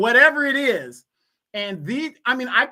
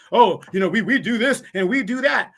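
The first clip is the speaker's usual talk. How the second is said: mocking quote. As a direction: throw their words back with a scoffing shout. Mocking immigrants' boasts.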